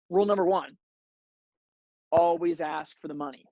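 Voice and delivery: lightly imitated team owner, measured with long pauses; a hint of the Cowboys owner, unhurried and deliberate; Jerry Jones. Team owner telling the locker room about life, lightly imitated voice. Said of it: "in his Jerry Jones voice".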